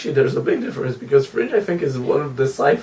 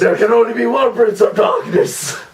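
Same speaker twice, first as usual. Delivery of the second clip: booming demon lord; 6 semitones higher than usual. Pretend. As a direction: boom it like a dark lord. Villain declamation.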